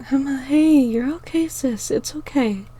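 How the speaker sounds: calm a crying sister; softly. Acted. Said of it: "Star said softly".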